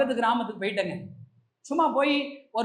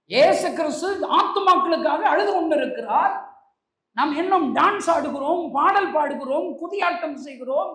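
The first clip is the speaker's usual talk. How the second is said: raised, emphatic pulpit rebuke; fervent preaching; 5 semitones higher, 5 dB louder than usual. Real, not acted. Preacher rebukes church dancing while Jesus weeps, fervent. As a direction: press each point home to the congregation.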